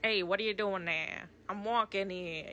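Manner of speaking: a light impression of the fire demon's dub voice; imitating Calcifer's dub voice. A fan mimics Calcifer's funny dub voice, lightly imitated. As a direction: toss off a quick mock Calcifer line, not far from own voice. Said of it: "The voice in the dub is so fucking funny".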